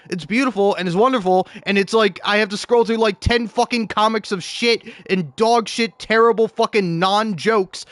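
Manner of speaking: heated rant. Real, not acted. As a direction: vent about scrolling through trash. Ranting about bad comics.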